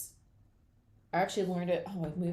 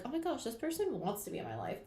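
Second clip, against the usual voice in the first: delighted gush; 6 semitones higher than usual. Pretend.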